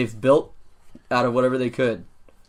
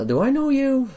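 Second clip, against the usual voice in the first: gruff guard; 13 semitones higher than usual. Acted. Desk guard questions visitor.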